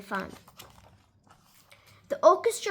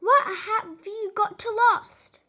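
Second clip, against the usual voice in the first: put-on higher, slow, laughing old lady coaxing; cheerful Missus Teaberry; 6 semitones higher, slower than usual. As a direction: coax him with a chuckle in a lady's voice. Missus Teaberry coaxing him to dance.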